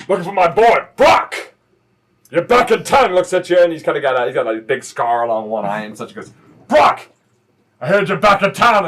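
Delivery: loud hailing call; biker dad shouting. Acted. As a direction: yell his name across the room. Biker dad yelling for son.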